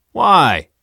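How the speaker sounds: loud, high challenge; demanding. A narrator's reading. Pilate challenging the mob, loud demand. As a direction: demand an answer forcefully. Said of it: "Pilate demanded".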